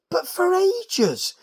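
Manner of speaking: mock weary drawl; drawn out. Real, not acted. Wrestling recapper mocking a move held forever, drawn out. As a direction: stretch it out slowly in disbelief.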